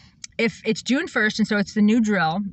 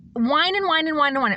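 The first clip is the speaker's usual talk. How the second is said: mock whining; 5 semitones higher than usual. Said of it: "let people whine to me".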